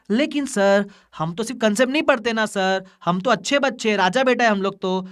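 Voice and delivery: lightly voiced goody-goody pupil; mock good-student voice. Teacher playing his students pleading with sir, mock good-student voice.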